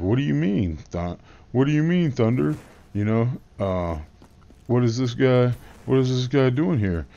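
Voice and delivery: imitating Thunder's squeaky indignant demand; mock indignant Thunder. Vlogger mimicking Thunder questioning the newcomer, high indignant squeak.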